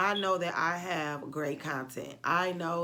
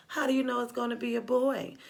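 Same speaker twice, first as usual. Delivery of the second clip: mock doubtful friends; 7 semitones higher, 5 dB louder than usual. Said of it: "And everyone's like".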